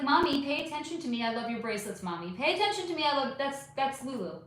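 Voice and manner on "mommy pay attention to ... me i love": cat voice. Retold or imitated. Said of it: "She's like".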